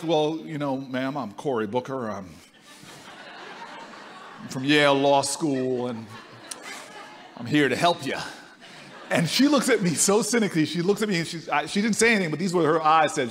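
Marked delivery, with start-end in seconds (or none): 0.0-8.2 a hint of a low, eager-to-please young man; naive young self. Young Booker introduces himself to Miss Jones, low and earnest. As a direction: play his own earnest young self. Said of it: "And I'm like".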